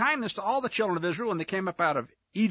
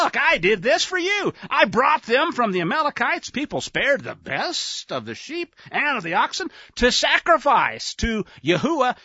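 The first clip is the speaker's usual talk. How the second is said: pleading excuse; 5 semitones higher than usual. Acted. Saul defends himself to Samuel.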